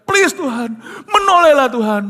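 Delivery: high loud tearful begging; crying plea. Retold or imitated. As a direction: sob out the plea. Friend praying in tears.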